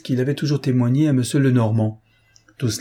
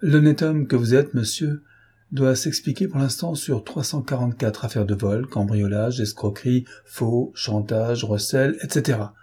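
mock-solemn, lightly ironic judge; a hint of dry irony under a serious tone; judge's understated mock-formal riposte. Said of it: "sur le même ton ironique et sérieux".

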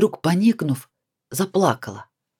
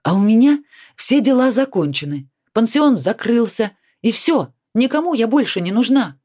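louder, higher, slowing in bitterness; irritated self-pity; 7 semitones higher, 4 dB louder than usual. A narrator's reading. Sveta snaps back irritably about being useless now. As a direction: snap back, then sink into self-pity. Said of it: "внезапно тоже раздражаясь".

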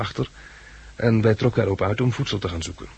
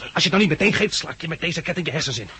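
angry threat to a reluctant captive; 4 semitones higher, faster than usual. Acted. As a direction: force the key out of him. Threatening for the key.

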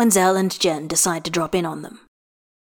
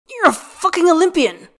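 much higher, louder exasperated protest; indignant protest; 8 semitones higher, 4 dB louder than usual. A narrator's reading. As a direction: push back in disbelief. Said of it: "Gale protests".

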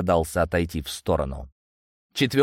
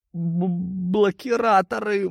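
high, slow, pained stammer; hurt bandit stammering; gasping thug; 11 semitones higher, slower than usual. A narrator's reading. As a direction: gasp it out in pain. Beaten thug gasps in pain.

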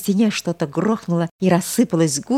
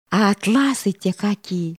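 carried away; 3 semitones higher than usual. Acted. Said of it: "всё более и более увлекалась Алёнушка".

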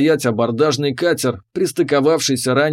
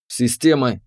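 commanding tone; 2 semitones lower than usual. Acted. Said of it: "произнёс я в пустоту командным тоном".

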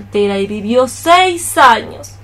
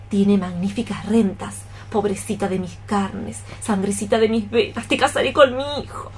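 scheming aside; 2 semitones lower, 6 dB quieter than usual. Acted. Mother scheming aside about the match.

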